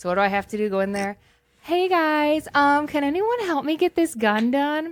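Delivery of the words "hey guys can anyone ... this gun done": put-on high voice, slow and drawn out. Told he must talk with a high voice, asking the guys for help: put-on high voice. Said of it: "you have to talk with a high voice".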